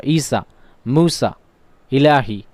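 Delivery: "ईसा, मूसा, इलाही" with the long aa kept short; short vowels. Shown as a demonstration. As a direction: say "ईसा, मूसा, इलाही" without stretching, one word at a time. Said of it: "मकसूरा वाले को छोटा पढ़ते हैं".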